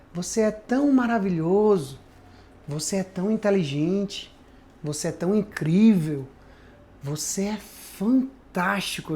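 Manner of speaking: mock-smooth velvety voice. Acting out how the voice of the enemy speaks, imitating a velvety voice. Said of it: "ela vem como um veludo".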